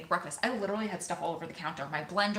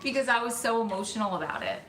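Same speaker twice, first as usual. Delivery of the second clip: laughing; 4 semitones higher than usual. Real, not acted. Laughing admitting she was nasty.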